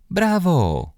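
high, delighted cry of bravo; girl cheers as friend finally slides, overjoyed; cheering. A narrator's reading. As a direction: cheer her on while clapping. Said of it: "zawołałam i zaczęłam klaskać".

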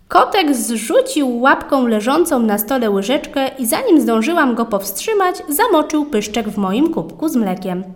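ordinary delivery, nothing marked

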